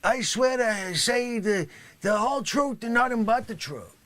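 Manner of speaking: hammed-up yelled oath; overblown oath. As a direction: bellow the oath far too big. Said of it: "You want me to say it".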